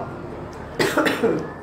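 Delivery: short dry cough. Real, not acted. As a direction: cough once, dry and rough. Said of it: "desculpa a tosse".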